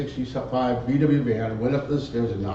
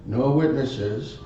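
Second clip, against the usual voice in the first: soft slow mumble, lightly voiced; mumbling; 3 semitones lower, 6 dB quieter, slower than usual. The fudge mumbling at the narrator before raising the gun, soft and slow. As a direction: murmur it, dazed. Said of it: "he mumbled".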